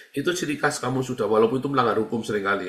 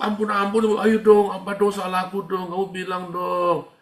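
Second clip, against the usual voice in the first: higher, louder, begging whine of a guilt-ridden follower; mock pleading victim; 7 semitones higher, 4 dB louder than usual. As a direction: plead for forgiveness, voice pitched up. (nada memohon ampun yang dibuat-buat)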